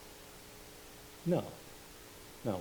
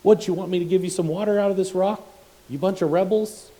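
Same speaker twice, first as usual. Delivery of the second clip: higher, louder mocking yell at the people; angry paraphrase, voice raised high; yelling at rebels; 8 semitones higher, 4 dB louder, faster than usual. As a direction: throw the words at them in anger. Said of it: "essentially yells at the people".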